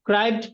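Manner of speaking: ক্রাইবড said as one unbroken syllable; teacher showing ক্রাইবড as just one syllable. Shown as a demonstration. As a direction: run ক্রাইবড together in a single beat. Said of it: "পুরাটাই কিন্তু একটা syllable".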